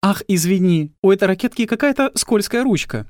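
high coquettish woman's voice; Mrs Jurgensen voice. Acted.

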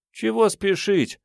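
put-on high, slow girl's voice; unhurried reply in a high girlish pitch; puffed-out girl. A narrator's reading. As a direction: play a lazily puffing girl. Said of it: "отдуваясь, заметила Мурзик".

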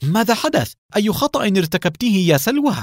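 high, urgent called question; shouting. Acted. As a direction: call out to her in alarm. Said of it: "صائحا".

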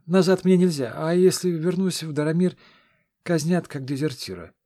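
a nervous lad begging to tag along; eager young squire. Acted. Young redhead Gert voiced.

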